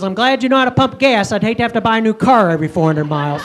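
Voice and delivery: dry, sarcastic jab at her husband; sarcastic wife. Retold or imitated. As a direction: needle him with mock praise, fast at the end. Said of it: "Twyla's sarcasm".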